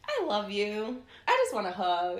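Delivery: a hint of a little girl asking for a hug; daughter's voice. Daughter walks up to mom for a hug, lightly voiced child. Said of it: "she'll walk up to me some days, be like".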